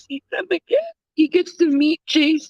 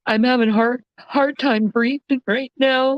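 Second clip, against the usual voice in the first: exhausted, barely holding it together; crying, worn out; 5 semitones lower than usual. Real, not acted. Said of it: "I can't stop crying".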